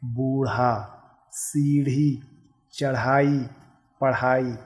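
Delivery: "बूढ़ा" with a breathy flapped ढ़; each word set apart with an aspirated tongue-tip flap; careful pronunciation demo. Shown as a demonstration. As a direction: model "सीढ़ी" slowly with an aspirated flap. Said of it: "अब इसका उच्चारण कैसे करेंगे".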